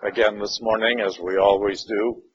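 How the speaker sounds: unhurried prayer spoken over the group; opening prayer. Acted. Class leader praying before the Gospel lesson, prayerful voice. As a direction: pray aloud for open minds and hearts.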